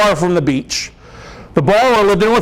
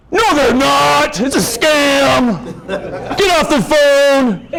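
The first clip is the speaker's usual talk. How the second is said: high, slow, laughing wife voice; suspicious wife; 8 semitones higher, much slower than usual. Retold or imitated. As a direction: play the doubting wife, amused. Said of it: "He's like".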